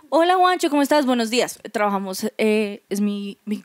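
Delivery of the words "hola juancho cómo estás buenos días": high, cheery office hello; acted greeting. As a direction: greet a coworker in a lifted voice. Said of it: "por usarte literal de ejemplo".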